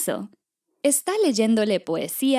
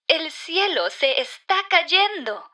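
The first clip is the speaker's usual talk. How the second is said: higher, dramatic read-out of a frightening headline; 6 semitones higher than usual. Acted. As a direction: announce alarming news, pitched up.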